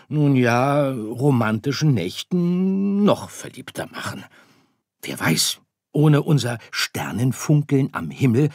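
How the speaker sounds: väterlich erklärend, etwas höher und lauter; geduldiger Sternenvater. Acted. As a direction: der Vater erklärt seinem Sohn die Welt der Sterne. Vater erklärt dem Sohn. (leicht gespielter Vater, erklärend)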